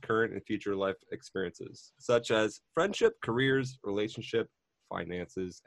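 measured scripted host read; podcast intro read. Acted. Host introduces show and best friend, scripted intro read.

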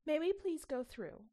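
put-on polite child. A narrator's reading. Polite request to door.

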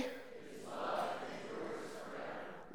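congregation reading together; many voices in unison. Real, not acted. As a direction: crowd reciting in unison. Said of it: "So you'll read what is in gold".

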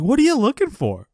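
high-pitched cartoonish dad demand; sitcom dad. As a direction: imitate a meddling dad butting in. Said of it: "He's like".

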